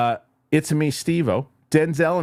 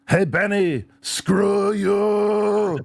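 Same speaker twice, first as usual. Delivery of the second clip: Johnny Cab quote in a higher put-on robot voice, with a grin; robot cabbie impression; 12 semitones higher, much slower than usual. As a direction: play the cheery robot taxi driver telling off Benny. Quoting Johnny Cab from movie.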